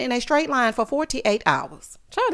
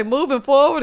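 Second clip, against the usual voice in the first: "moving forward" said louder and higher, breaking up with laughter; laughing through words; 4 semitones higher, 5 dB louder than usual. Real, not acted. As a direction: try to say "moving forward" while cracking up. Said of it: "I was laughing so hard".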